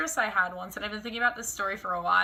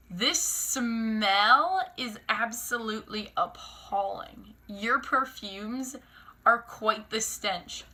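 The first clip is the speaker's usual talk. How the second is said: slow, prissy put-on voice of the waitress; lightly voiced haughty server; imitating a snooty waitress; mock snooty waitress; much slower than usual.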